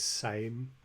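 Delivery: "same" drawn out slowly; imitated pronunciation. Teacher pointing out how the learner says it, imitated pronunciation. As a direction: stretch out "same" as a copy of his pronunciation. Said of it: "when he says same".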